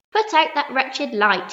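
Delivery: loud, slow angry shout. A narrator's reading. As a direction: bark it up at the ceiling. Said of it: "he shouted".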